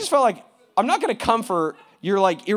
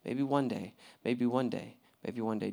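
lazy procrastinating drawl; 6 semitones lower, 8 dB quieter than usual. Retold or imitated. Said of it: "keep hitting snooze and say".

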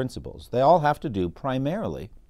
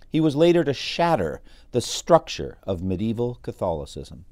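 measured, emphatic reading of paired contrasts; dramatic history narration; 2 semitones higher, 4 dB louder than usual. A narrator's reading. Podcaster revealing whose story this is, dramatic narration. Reads a historian's account aloud.

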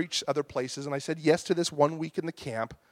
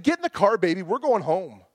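mock angry; 3 dB louder than usual. Telling wife to leave.

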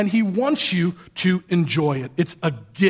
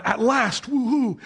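mildly excited; 4 semitones higher than usual. Acted. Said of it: "Adam does respond".

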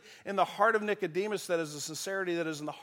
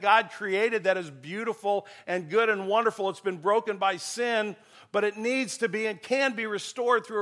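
building fervor; 4 semitones higher, 4 dB louder than usual. Real, not acted. Preacher rebuking the church.

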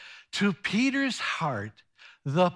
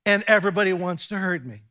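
fearful lonely plea; 4 dB louder than usual. Acted. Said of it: "I hear fear and loneliness with him saying".

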